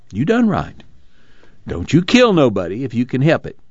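lightly voiced preacher giving heartfelt advice; earnest preacher. Casey counsels Muley in the story.

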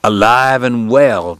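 slow, hoarse, insistent; hoarse insistence. Acted. Doc, coughing, insists to Kate, hoarse and slow. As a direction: press it out though your throat is raw. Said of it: "with a hoarse insistence".

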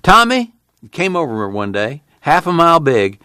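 high, gleeful storytelling; giggly glee. A narrator's reading. Son teasing Ma about fooling her, giggly glee. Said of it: "Old Tom giggled".

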